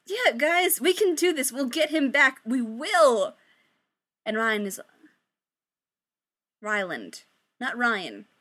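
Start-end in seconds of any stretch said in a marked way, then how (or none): 0.1-3.3 forced, higher cheerful reassurance; unconvincing cheer. Acted. Victoria reassuring her friends with forced, unconvincing cheer. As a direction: fake confidence you don't feel. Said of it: "most unconvincing smile ever".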